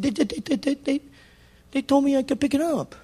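high, stammering protest; flustered stammer. Retold or imitated. Preacher mimicking his own flustered protest at the store. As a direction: sputter it out in disbelief.

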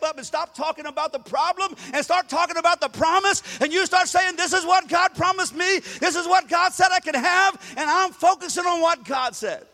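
high, loud declaration of faith; full-force preaching. Acted. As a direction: proclaim the promise with full force. Preaching climax.

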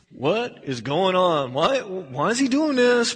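drawn-out, incredulous question; slow, puzzled disbelief; bewildered disciple. Acted. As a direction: ask it slowly, as a baffled onlooker.

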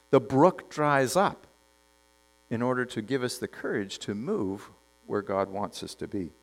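soft, slowing down, reflective; a gentle hush over the point; hushed reflection. Acted. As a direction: draw them in quietly. Reflective aside to the congregation.

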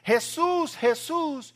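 high, loud calling out a name; desperate shout. Retold or imitated. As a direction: shout after him from behind, desperate. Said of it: "Esta mujer está atrás gritando". (llamado a gritos, agudo y fuerte)

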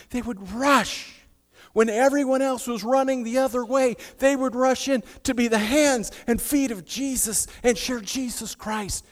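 loud, high pulpit build; fervent full-voice preaching; preaching at full force. Acted. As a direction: drive the rescuers' courage home.

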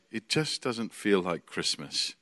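soft, slow imitated lament; understated homesick sigh of a line; mild mock wistfulness. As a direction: quote their complaint low-key and drawn out. Voicing homesick American students' complaint.

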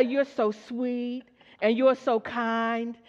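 "You're so sweet and you're so kind" drawn out very slowly; slow affirmation. Shown as a demonstration. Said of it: "I say".

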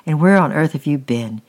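mother scolding Francis after being startled, loud and exasperated; angry mother. Acted. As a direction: snap at the boy, fed up with him.

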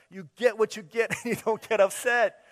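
high, loud sing-song through a laugh; laughing catchphrase. Retold or imitated. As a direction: chant it, cracking up.

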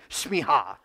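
shmiha said slowly for the crowd; shmiha together. Shown as a demonstration. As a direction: lead them in saying shmiha. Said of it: "You wanna say it with me".

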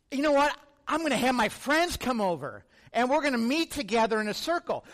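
put-on light excited kid voice; a boy thrilled to gather his friends; eager kid. Excited kid plans a meeting.

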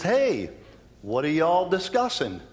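casual Southern greeting, lightly voiced; Southern Jesus. Preacher voicing Jesus to the two men, light Southern accent. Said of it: "In my version, Jesus is Southern".

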